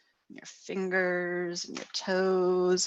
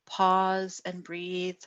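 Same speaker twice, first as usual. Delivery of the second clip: slow, calm guidance; much slower than usual. Shown as a demonstration. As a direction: let each word settle slowly.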